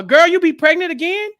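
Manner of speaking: high, loud caricature of a book's dialect; exaggerated AAVE dialect quote. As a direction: read it like an over-the-top urban novel voice. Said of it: "very specific type of dialect".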